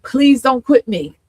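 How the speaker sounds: slow, emotional plea; real emotion in a drawn-out plea; getting emotional. Real, not acted. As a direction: plead slowly, still moved. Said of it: "I'm getting emotional now".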